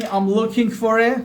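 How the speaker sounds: slow, open-ended phrase; slow model phrase. Shown as a demonstration. Teacher giving an unfinished phrase for students to translate. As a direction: leave it hanging slowly.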